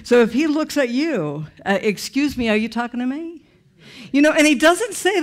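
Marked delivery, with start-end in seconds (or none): 1.8-3.4 arrogant. Retold or imitated. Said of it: "he is so arrogant".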